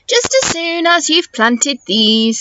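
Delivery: lightly voiced firm mum, a bit slow; a hint of a patient mother; mum's voice. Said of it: "said Mum".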